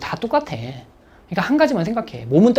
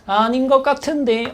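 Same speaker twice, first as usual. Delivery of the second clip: unsure weak student; 6 semitones higher, slower than usual. Retold or imitated. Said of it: "중하위권 어떻게 푸냐면".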